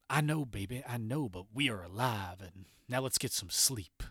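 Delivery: John lightly voiced, softly hushing his wife to bed; soothing husband. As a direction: coax her gently back to sleep. John soothes wife, wants sleep.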